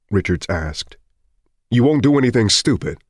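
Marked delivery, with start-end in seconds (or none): 1.7-3.0 urgent plea. Acted. Richards pleading.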